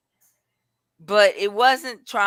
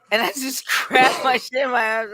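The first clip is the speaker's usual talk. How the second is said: fast and pitched up, through laughter; laughing retelling; 7 semitones higher, 5 dB louder, faster than usual. Real, not acted. Woman telling how she stormed out of the store, laughing. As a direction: laugh while racing through the story.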